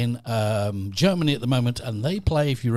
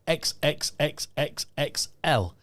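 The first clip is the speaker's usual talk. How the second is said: stuttering joke voice; much slower than usual. Retold or imitated. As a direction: draw out the X's in a slow, halting stutter. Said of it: "I realised that he stuttered".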